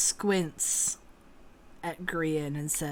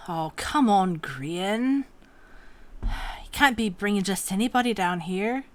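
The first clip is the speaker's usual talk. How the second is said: exasperated protest, slightly louder; 3 semitones higher, 5 dB louder than usual. Acted. Man with glasses exasperated at Grian bringing strangers. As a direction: complain in exasperation.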